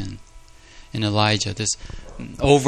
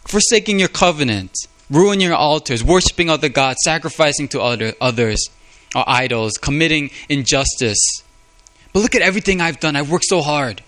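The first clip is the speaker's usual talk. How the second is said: higher, louder, rushing through look at everything; Elijah self-justifying; 4 semitones higher, 4 dB louder than usual. Retold or imitated. Elijah accusing Israel and praising himself to God, indignant. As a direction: list their sins then boast of your own. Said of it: "Or he's saying".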